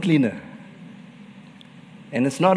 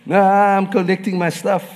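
raised, louder sly devil reply; lightly voiced cheeky intruder; 5 semitones higher, 4 dB louder than usual. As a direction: play the devil coming back for his things. Devil answers in story.

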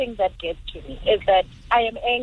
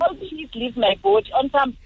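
mock plea. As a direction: pretend to plead tearfully.

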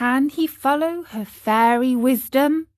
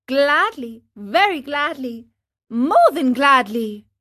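each gladly a bit more eager; building eager promise; 3 semitones higher, 5 dB louder than usual. Acted. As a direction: stack the gladlys, rising to more. Pinocchio voiced in story.

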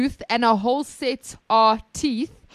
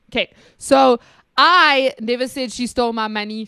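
"I" pushed louder; stress on I; 4 dB louder than usual. Shown as a demonstration. Going back through the drill, stressing "I". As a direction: put weight on "I" up front. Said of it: "Someone else said it".

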